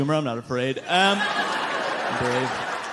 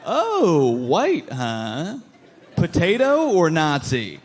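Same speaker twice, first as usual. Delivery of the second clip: mock flirty; much slower than usual. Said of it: "I'm gonna start doing that to white people".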